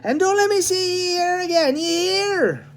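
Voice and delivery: high, loud Irish-flavoured warning; the policeman warning Tom never to come back; stern Irish policeman. Acted. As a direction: warn him off for good.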